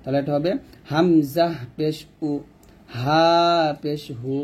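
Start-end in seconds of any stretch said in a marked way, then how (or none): 0.9-2.3 হামজা spelled out, উ from the start of the throat; sound from the throat. Shown as a demonstration. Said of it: "হামজা হা গলার শুরু থেকে উচ্চারণ হবে". 3.0-4.3 long হা, breath from the start of the throat. Shown as a demonstration. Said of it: "হামজা হা গলার শুরু থেকে উচ্চারণ হবে".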